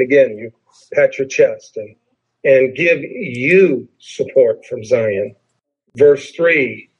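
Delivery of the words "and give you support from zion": slow, drawn-out "you"; stress on YOU. Shown as a demonstration. Pastor misreading the psalm on purpose, stress on "you". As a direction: lean hard on "you". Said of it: "purposely say this in an incorrect way".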